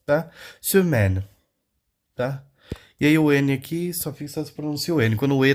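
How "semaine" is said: "Semaine" with ai as an open e; French ai sound. Shown as a demonstration. Teacher showing the A I sound, French pronunciation. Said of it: "dando um som de E".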